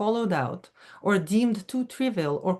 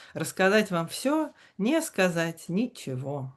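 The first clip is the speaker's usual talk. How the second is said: lilting, chanting Russian verse reading; напевное чтение стихов; sing-song poetry reading. Shown as a demonstration. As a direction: read it like the poet reads himself, in a sing-song. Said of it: "sing-song reading with that inflection".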